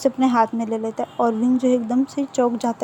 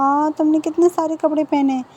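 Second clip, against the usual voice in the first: higher-pitched, lightly acted disbelief; mock exasperation; 4 semitones higher than usual. Wing keeps peeling off layers, mildly exasperated. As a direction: act out mild exasperated amazement.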